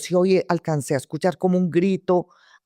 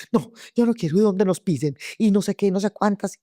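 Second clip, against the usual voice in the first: mildly frightened protest, pitched higher; retold scared refusal; 5 semitones higher than usual. Captor scared stiff refuses to go along, mock-frightened. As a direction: imitate a scared man balking, voice raised in pitch. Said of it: "muerto del susto que decía".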